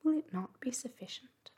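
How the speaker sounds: hopeful, pressing appeal; eager. A narrator's reading. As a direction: ask it keenly, voice lifted. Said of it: "said Marianne eagerly".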